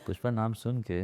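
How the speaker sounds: soft mock-flirty murmur after a giggle; cute, flirty. Guest retrying the film line for the host, mock flirty. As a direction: say it softly, playing at cute flirting. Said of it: "ये cute और flirty अंदाज में".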